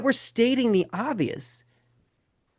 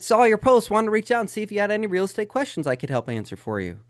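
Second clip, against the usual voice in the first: salesy agent message; 2 semitones higher than usual. Retold or imitated. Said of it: "the D M that we sent to Keith".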